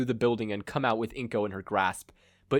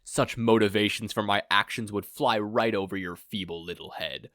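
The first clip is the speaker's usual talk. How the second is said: scoffing. Acted. Villain scoffs at his captive, dismissive. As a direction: sneer at her feeble mind. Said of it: "He scoffed".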